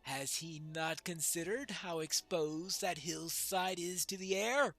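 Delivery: measured, declaimed character reading; lightly voiced dwarf prince. Dwarf prince weighs the call to moot, lightly declaimed. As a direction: deliver it as a lightly acted proud dwarf.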